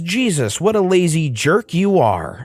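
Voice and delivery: mild, offhand mock insult; nonchalant tone. Narrator imitating the mother's casual dismissive insult. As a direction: toss the insult off like it's nothing, lightly. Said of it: "in the most nonchalant tone ever".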